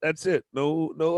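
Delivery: loud, high mock shout. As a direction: shout down the touchy-feely question. Shouting down inner child.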